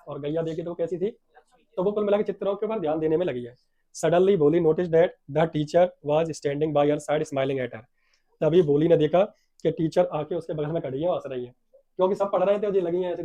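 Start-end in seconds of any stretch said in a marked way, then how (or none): 4.0-7.8 very slow English reading; read-aloud story. A narrator's reading. Teacher reads how Bholi noticed the teacher, slow story reading. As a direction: read each word out deliberately.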